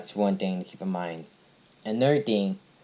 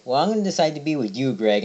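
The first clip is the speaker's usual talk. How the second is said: mock-eager, higher and quick; retold eager declaration; 5 semitones higher, 4 dB louder than usual. All the humans flock to Greg, mock eagerness. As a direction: lightly act out an excited admirer, pitched up and hurried.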